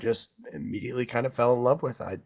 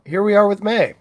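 excited announcement; 10 semitones higher, 11 dB louder than usual. Real, not acted. Host announces the movie.

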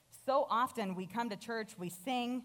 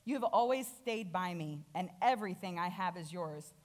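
compassionate. Acted. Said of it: "again with compassion".

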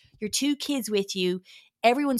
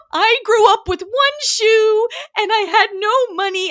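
intense, loud, high impression; Bethany; 12 semitones higher, 9 dB louder, slower than usual. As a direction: wail it slowly with huge drama. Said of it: "Bethany was so intense".

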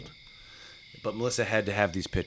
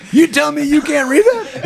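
high, loud incredulous bark; mock officer yelling; outraged shout; 11 dB louder than usual. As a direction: demand it like a furious officer. Retold officer's outraged question.

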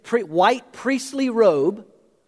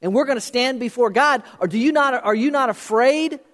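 urgent plea; 6 semitones higher than usual. Acted. Preacher voicing the thief's plea.

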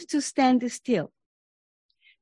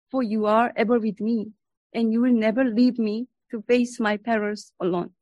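solemn, earnest prayer read aloud. Acted. Reads Merton's prayer.

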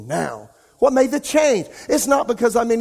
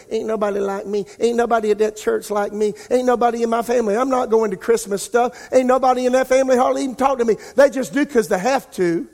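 self-pitying complaint; 4 semitones higher, faster than usual. Retold or imitated. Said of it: "start voicing".

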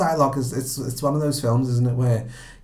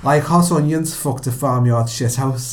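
laughing through the quote; 3 semitones higher, 6 dB louder than usual. Retold or imitated. Quoting favourite rant line.

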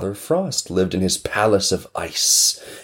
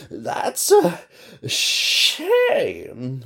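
hissing blizzard; 10 semitones higher, much slower than usual. Acted. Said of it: "one of them hissed".

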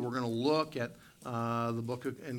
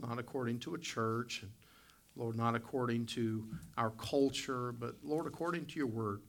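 prayer voice. Acted. Leads the congregation in prayer.

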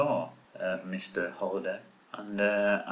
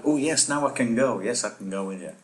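mock excited; 3 semitones higher, 3 dB louder than usual. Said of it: "He got very excited".

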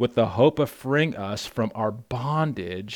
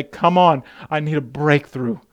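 loud, urgent plea to God; pleading prayer cry; 3 semitones higher, 6 dB louder than usual. Shown as a demonstration. Pastor models how the congregation should cry out to Jesus. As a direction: cry out for a breakthrough. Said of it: "we need to say".

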